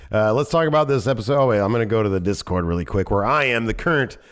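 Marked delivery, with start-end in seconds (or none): none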